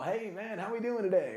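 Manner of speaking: smiling greeting. Retold or imitated. Coming in for someone having a bad day, smiling greeting. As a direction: greet them with an audible smile. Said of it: "come in with a smile".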